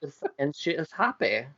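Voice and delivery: lilting mock French accent. Host telling how the lady feels, slipping into French accent. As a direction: narrate in a wobbly French accent. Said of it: "Going French again".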